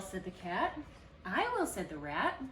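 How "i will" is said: high, loud eager yes; eager squeak. Acted. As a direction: grab the offer. Rat eager for cake.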